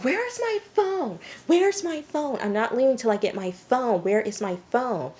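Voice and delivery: high, wailing demand easing toward the end; mock demanding. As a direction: imitate someone frantic for a lost item. Imitates Amanda demanding her phone.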